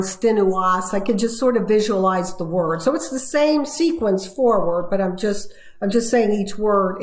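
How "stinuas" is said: "stinuas", said as sounds spelled backwards; backwards speech. Shown as a demonstration. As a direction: read "stinuas" as the reversed word sounds.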